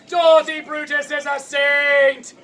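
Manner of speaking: slow, drawn-out mock outcry; anguished cry. Brutus on her knees defending her mother, hammed-up cry. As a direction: cry it out melodramatically, stretching the words. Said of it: "falls to her knees and cries out".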